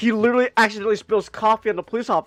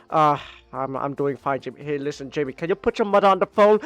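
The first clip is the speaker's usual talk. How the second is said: lower, weary, drained father; tired dad; 6 semitones lower than usual. Retold or imitated. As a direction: sound worn out and deflated. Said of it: "he's just tired".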